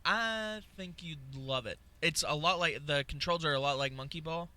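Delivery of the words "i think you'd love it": slow, lightly posh maitre d'; a hint of a waiter recommending dishes; snooty waiter. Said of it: "talking like a maitre d' at a restaurant".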